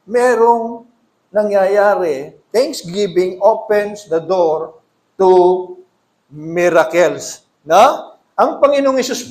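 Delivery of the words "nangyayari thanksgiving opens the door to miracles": slow, weighty, every word placed; slow emphatic declaration. Acted. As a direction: let the truth land slowly. (mabagal at mabigat na pagdidiin)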